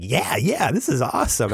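high, eager fanboy imitation; delighted grin. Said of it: "he just has the biggest grin on his face".

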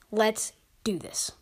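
whispered, slow; hushed intro line. Acted. Podcast intro sign-off line.

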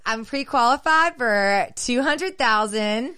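sultry client voice. Retold or imitated. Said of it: "they're like".

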